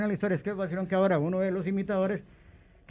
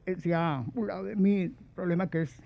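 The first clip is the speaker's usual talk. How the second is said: a lightly raised, formal strained voice; imitating Guillén; 3 semitones higher than usual. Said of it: "por qué mi voz está así". (voz aguda de Guillén imitada, ligera)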